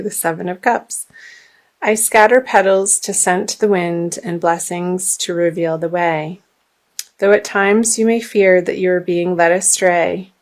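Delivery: measured oracle card reading; reading aloud. Acted. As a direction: read it like gentle guidance. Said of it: "I will read to you. It's like story time".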